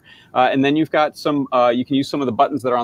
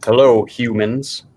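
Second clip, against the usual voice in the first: creepy monster voice; slower than usual. Acted. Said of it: "This is the voice changed version".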